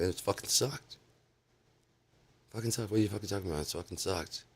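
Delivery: high-pitched, exasperated protest; mock-indignant retelling of a sore reply; indignant retort. Retelling his angry reply to praise.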